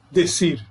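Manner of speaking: "decir" slowly, stressed on CIR; stress on last syllable. Shown as a demonstration. Teacher giving an example of final stress, slow "decir" stressed on CIR. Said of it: "Aí a sílaba tônica, então, está no final".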